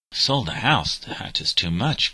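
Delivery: a touch of indignant outrage, rising then slowing; mildly outraged disbelief, words dragged out; indignant cry. Acted. Boy learning father sold the house, mildly indignant. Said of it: "cried Patrick indignantly".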